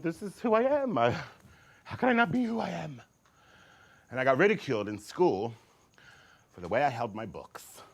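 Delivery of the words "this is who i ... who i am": earnest self-assurance. Retold or imitated. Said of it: "I just thought".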